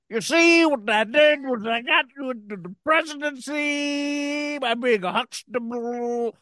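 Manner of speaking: Bill Cosby impression. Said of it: "Bill Cosby".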